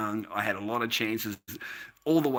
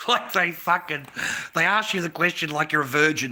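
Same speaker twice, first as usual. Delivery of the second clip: laughing through the words, higher and louder; amused ridicule; 4 semitones higher, 5 dB louder than usual. Real, not acted. Mocking the questions women always ask, amused ridicule. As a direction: burst out laughing as you speak.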